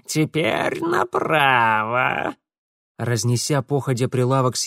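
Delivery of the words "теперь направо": creature voice. A narrator's reading. Mara directing.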